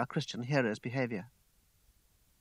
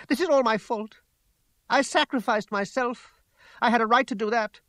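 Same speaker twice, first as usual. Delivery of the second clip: high, louder self-reproach; distraught outburst; 7 semitones higher, 5 dB louder than usual. A narrator's reading. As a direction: burst out in agitated confession. Distraught confession after a scream.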